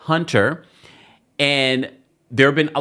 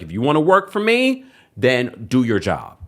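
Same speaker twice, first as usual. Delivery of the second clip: retold indignant demand; 3 semitones higher than usual. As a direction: lay down the law, quoting someone upset. Acting out Wendy's upset at caretakers.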